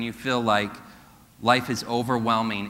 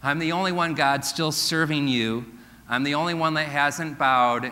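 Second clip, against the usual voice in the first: Elijah's self-pity; 3 semitones higher than usual. Retold or imitated. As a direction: whine like the last faithful man. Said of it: "He says".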